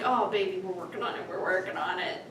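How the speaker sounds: put-on soft, low reassurance to a child; retold gentle consoling. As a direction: soothe a little one quietly, retelling it.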